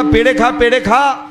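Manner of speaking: slow drawn-out mock hawker cry; lightly voiced vendor call, slow. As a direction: stretch the call like a sweet seller. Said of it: "हा ओरडायचा".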